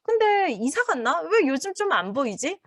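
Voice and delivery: high, wondering neighbour's question; curious neighbour. Acted. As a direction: ask around about the missing neighbour. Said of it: "나는 까유하고 가족은 아닌데 이웃이야".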